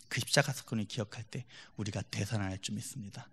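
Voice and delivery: ordinary talk, nothing marked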